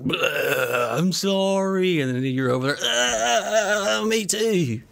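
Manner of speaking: high, strained retching voices; mock vomiting exchange. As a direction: ham up the puking and the thrill. Acting out drunk girl vomiting.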